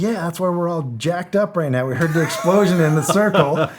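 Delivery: a jacked-up buddy scolding lightly; amped-up teammate. Retold or imitated. Teammate explaining they nearly opened fire, keyed-up and loud.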